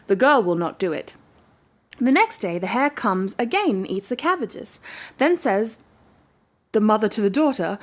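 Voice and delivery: steady storybook reading voice; story narration. A narrator's reading. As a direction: read it like a bedtime tale. Reading a fairy tale aloud.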